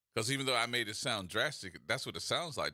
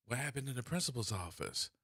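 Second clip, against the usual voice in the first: mock gasp; 3 dB quieter than usual. Feigned shock, gasping.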